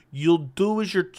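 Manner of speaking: lightly attempted Irish accent, slow; Conor McGregor accent. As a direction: have a tentative go at an Irish accent. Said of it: "in the Conor McGregor accent".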